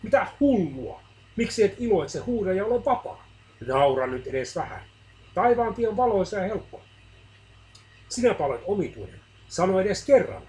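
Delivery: lightly voiced scoffers nagging him to be cheerful; mocking believers. Believers mock the suffering man, lightly voiced mockery.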